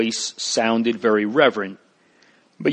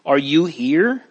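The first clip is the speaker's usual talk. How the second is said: happy surprised question; mildly delighted disbelief; joyful; 4 semitones higher than usual. Acted. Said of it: "Mister Standfast cried joyfully".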